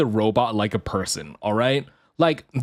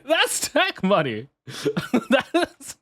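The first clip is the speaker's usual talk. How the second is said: slower, laughing through the words tech money; 7 semitones higher, slower than usual. Retold or imitated. Streamer laughing at her own daydream of tech money. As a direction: giggle it out, savouring tech money. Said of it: "And then I'm like".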